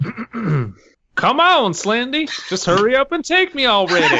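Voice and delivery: hammed-up Jeff. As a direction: whine for Slendy like a needy lover. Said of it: "give us your best Jeff here".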